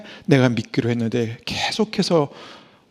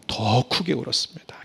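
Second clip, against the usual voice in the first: whispered aside; 2 semitones lower, 6 dB quieter than usual. Real, not acted.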